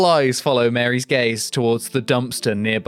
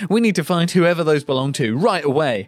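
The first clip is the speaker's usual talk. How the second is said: lightly acted urgent detective, pitched up; commanding detective; 5 semitones higher than usual. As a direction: order the team into action. Detective gives orders to officers.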